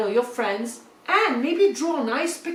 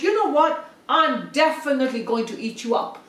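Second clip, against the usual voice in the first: angry wolf; 3 semitones higher than usual. Acted. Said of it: "danced with rage and said".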